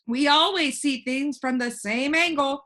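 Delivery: put-on a cheerful know-it-all boy floating in the air; voiced boy Alec. Alec continues.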